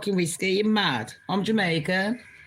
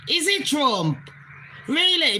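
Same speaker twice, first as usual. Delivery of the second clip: incredulous outburst; 6 semitones higher than usual. Real, not acted. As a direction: scoff at him in disbelief.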